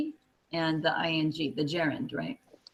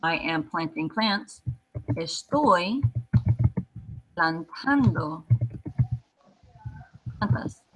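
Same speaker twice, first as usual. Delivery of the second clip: slow, careful English then Spanish; slow teacher demo; slow translation demo; slower than usual. Shown as a demonstration. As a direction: stretch out "plantando". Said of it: "So if I wanna say".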